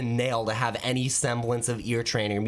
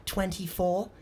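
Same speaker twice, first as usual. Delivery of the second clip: lightly voiced little boy, higher; kid's answer with a questioning lift; child answering; 7 semitones higher, slower than usual. Johnny reading a plate, child voice. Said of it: "He's like".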